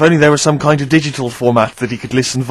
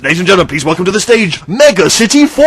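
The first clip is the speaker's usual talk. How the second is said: arena announcer; 5 semitones higher, 4 dB louder than usual. Retold or imitated. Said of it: "imagine someone going".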